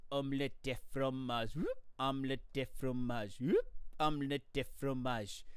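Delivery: low droning repeated loop with a whoop; lightly voiced skipping record. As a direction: mimic a stuck record player. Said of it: "So, so it just goes".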